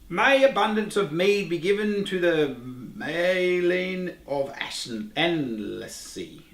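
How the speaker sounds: put-on slow, measured reading of an old verse; solemn reading aloud. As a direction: read it like an ancient saying, slowly. Reads old quote from book.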